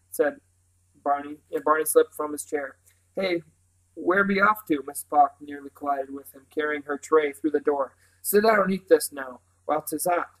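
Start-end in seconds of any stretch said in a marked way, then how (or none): 3.1-10.3 lightly voiced country housekeeper; a hint of rustic bossiness; bustling Mrs Park. Housekeeper stops the boy to serve breakfast, lightly rustic.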